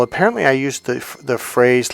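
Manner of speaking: ordinary talk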